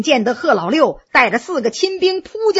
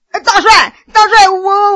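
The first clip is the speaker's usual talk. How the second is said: panicked, higher pleading; terrified pleading; 6 semitones higher, 6 dB louder than usual. A narrator's reading. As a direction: beg for mercy in terror. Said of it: "早已吓得魂飞魄散了".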